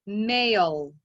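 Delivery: whole word said in one go after the sounds; blended word. Shown as a demonstration. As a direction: put the sounds together into Male. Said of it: "Put it all together".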